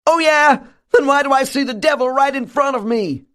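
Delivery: very high, shrill retort. A narrator's reading. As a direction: snap back in a piercing high voice. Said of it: "cuts in with a shrill tone of voice".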